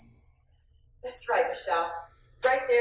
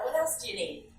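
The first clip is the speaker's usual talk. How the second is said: smiling, friendly offer of more help; with a smile; 3 dB quieter than usual. Shown as a demonstration. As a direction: say it smiling, welcoming. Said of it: "You can say that with a smile".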